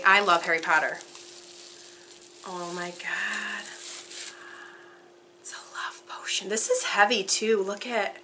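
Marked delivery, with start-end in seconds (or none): 2.4-6.5 real awestruck hush; hushed awe. Real, not acted. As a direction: breathe it out in amazement, then whisper. Awed by love potion.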